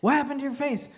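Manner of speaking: mock Southern questioning; Southern accent. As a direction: imitate a Southern wedding guest, roughly. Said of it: "I don't have a great Southern accent".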